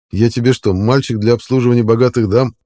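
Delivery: indignant question. Acted. Man indignant at being bought. (возмущённо, громче обычного)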